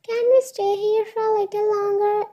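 lightly voiced babyish pleading. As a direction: beg like a small child wanting to stay. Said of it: "He spoke in babish voice".

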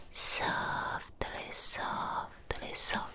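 very soft, fading whisper; hushed soothing whisper. Acted. Vampire soothes the partner while brushing them, very soft whisper. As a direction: barely breathe it, lulling them.

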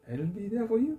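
tearful. Real, not acted. Emotional promise to husband.

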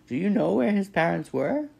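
high, loud, indignant goose; scolding old goose, pitched high; squawking goose. A narrator's reading. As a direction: squawk an accusing question. Goose questions the robot.

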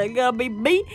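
lightly acted nervous question; mild mock worry. Player wondering who gets murdered, mildly worried. Acting out fear of being murdered.

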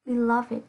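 "beloved" in three syllables, bi-LUV-id; careful teacher's "beloved", ending in -id. Shown as a demonstration. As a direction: give the ED of "beloved" its own short syllable. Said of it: "sẽ được phát âm là E D".

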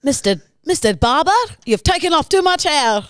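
badly faked German complaint; attempted German accent. German man to barber over shocking haircut, unhappy German accent. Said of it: "you're a man from Germany".

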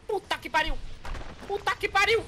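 excited swearing. Real, not acted. Game chaos, exclaiming.

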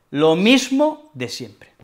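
slow, resigned repeat; slow, resigned "lo mismo de siempre"; slow weary repeat. Shown as a demonstration. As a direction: drag it out like an old routine. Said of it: "Expreso que esto se repite".

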